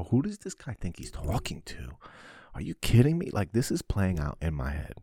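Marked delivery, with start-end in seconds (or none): 0.0-3.3 seethe under your breath, then burst; whispered then outraged. Retold or imitated. Man fuming alone about his boss, whisper then outburst.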